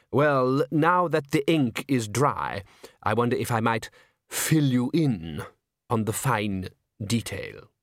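slow dry gentleman. Acted. Sal Zeller, slow sly.

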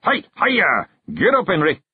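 high carter's yell. A narrator's reading. Carter driving his horse on for gold, high yell. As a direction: call out to urge the horse on. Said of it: "took a deep breath and yelled".

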